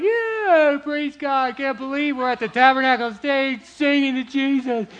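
high, loud whoop settling into excited praise; acted rejoicing. Imitating saints lifting hands at the stage, excited praise. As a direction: cheer it like an overjoyed worshipper.

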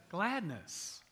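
flat, joyless Gladness; unglad. Real, not acted. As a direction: say "Gladness." dutifully, with no joy. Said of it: "most unglad reading of the word gladness".

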